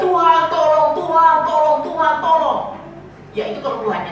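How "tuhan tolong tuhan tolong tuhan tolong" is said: louder mock plea, Tuhan tolong called out; mock cry for help. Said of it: "baru kau teriak-teriak".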